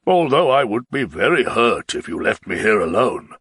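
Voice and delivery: a tipsy nobleman begging to ride away; the Baron, pleading. Acted.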